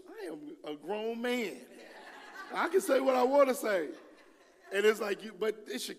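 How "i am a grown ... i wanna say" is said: mock defiance. Mock defiant grown man.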